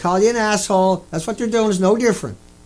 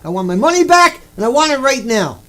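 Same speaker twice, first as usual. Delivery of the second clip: loud demand; 2 semitones higher, 4 dB louder than usual. Pretend. Man demanding refund from lecturer, loud insistent demand. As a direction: raise your voice and demand the money. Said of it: "demanding refund at a lecture".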